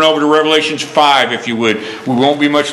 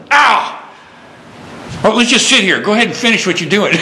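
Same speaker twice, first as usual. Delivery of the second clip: mock pained inner voice; 5 semitones higher than usual. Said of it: "I was, like, thinking to myself".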